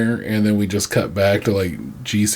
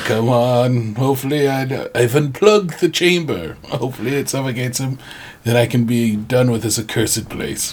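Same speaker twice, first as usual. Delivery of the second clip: put-on scheming butler voice, higher pitch; 3 semitones higher than usual. Imagining the butler Alfred plotting against his master: imitating Alfred. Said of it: "He's like".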